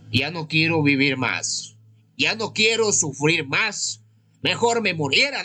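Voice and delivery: mock-despairing cry, building in pitch. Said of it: "es que tú estás decepcionado".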